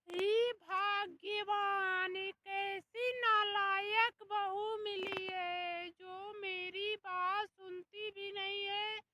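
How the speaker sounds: mock despairing mother-in-law; exasperated lament. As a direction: throw up your hands at the bahu. Mother-in-law complaining to God.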